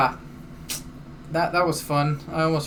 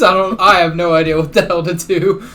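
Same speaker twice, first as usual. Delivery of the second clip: laughing awkwardly; 7 dB louder than usual. Real, not acted. Laughs through awkward memory.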